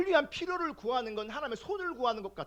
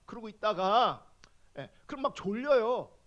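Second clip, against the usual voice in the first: ordinary delivery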